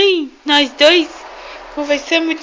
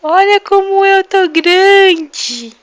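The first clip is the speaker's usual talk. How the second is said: put-on high, slow cooing baby voice; mother voicing her baby to grandma, high and slow; 5 semitones higher, 6 dB louder, slower than usual. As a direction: speak for the baby, sweet and drawn out, to grandma. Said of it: "Vai falar".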